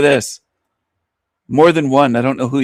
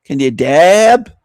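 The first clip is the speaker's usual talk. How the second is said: slow mock hick drawl, louder; 3 semitones higher, 4 dB louder, slower than usual. Mocking the loud woman in the clip, slow hick drawl. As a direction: parrot her with a sneer. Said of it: "Listen to the loud woman".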